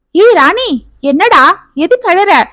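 lightly voiced husband, startled and caring; concerned husband. Husband sees wife crying.

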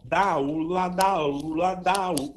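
"dá, u, lá" repeated as a connected drill; pronounce along. Shown as a demonstration. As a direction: lead the student through "dá, u, lá" with vowels sustained and linked. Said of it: "pronuncia comigo".

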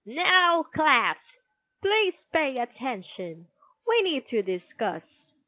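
loud, high start, then firm and settling; stern teacher calling. A narrator's reading. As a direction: call the class to order. Teacher calls class to attention.

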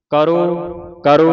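slow, loud ਕਰੋ with a long held final "o"; pronunciation model. Shown as a demonstration. Teacher models the word for the class, pronunciation model. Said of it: "ਇਹ ਆਵਾਜ਼ ਉਚਾਰਨ ਕੱਢਣੀ".

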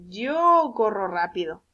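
Yo held long before the rest; stress on Yo. Shown as a demonstration. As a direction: slowly model it with a drawn-out Yo. Teacher models the pronoun yo.

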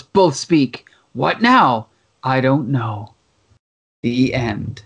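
lightly dramatic narrator voice, slowing on hangs heavy and still; comic narration reading. Shown as a demonstration. Host reads the comic's final narration to his co-host, lightly dramatic. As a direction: read the closing caption with a touch of gloom. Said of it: "I love this narration at the end".

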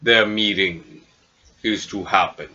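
slow, measured formal summons; grand messenger giving a slow proclamation; cloud giant thane. Acted. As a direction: deliver it ponderously, with stately pauses. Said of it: "you hear the voice of the Cloud Giant".

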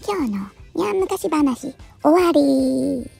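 slow, stretched-out closing line; storyteller's sign-off. Acted. Cat tale ending for listeners, slow storyteller sign-off. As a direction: draw out the last word to close the tale.

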